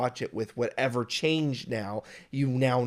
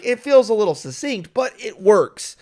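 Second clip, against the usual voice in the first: mock viewer verdict; 6 semitones higher, 6 dB louder than usual. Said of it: "I might be like".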